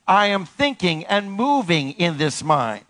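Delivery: measured, drawn-out declaration; slow it so all can join in; steady, spaced-out call-and-response; slow repeated affirmation. Shown as a demonstration. Slower repeat with congregation.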